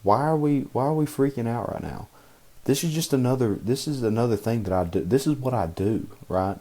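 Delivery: calming inner voice. Retold or imitated. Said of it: "They're like".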